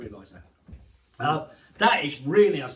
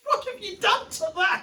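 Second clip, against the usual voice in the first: surprised. Real, not acted. Shocked at cut cake.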